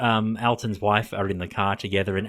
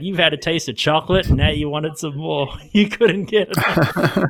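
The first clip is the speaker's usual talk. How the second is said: raised, higher retold yell; mock yell; 7 semitones higher, 4 dB louder than usual. Loretta yelling as she leaves in a cab, mock yell. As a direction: call it out, slowing into laughter at the end. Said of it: "Loretta yells out".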